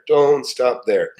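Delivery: Don't stop there drawn out slowly, each word weighted; slow emphatic repeat. Shown as a demonstration. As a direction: repeat it slowly to drive it home.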